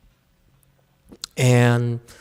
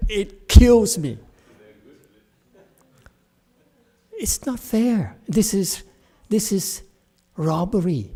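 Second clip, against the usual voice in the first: higher and louder, slowed and indignant; worked up; 7 semitones higher, 4 dB louder than usual. Real, not acted. Teacher ranting about insurers, worked-up and indignant. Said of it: "I'm getting emotional".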